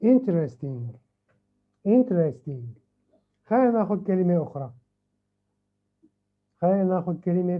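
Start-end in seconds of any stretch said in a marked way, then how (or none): 0.0-2.6 "Interesting" with a firm first beat, every syllable distinct; four clear syllables. Shown as a demonstration. Teacher confirming four syllables to students, each beat clear. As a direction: say "Interesting" as four audible beats. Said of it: "It has four syllables".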